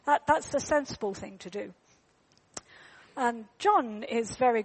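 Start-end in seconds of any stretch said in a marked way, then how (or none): 0.0-1.7 put-on higher, hesitant little boy voice; a hint of a small lost boy; lost boy's voice. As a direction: voice the unsure child. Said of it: "he goes".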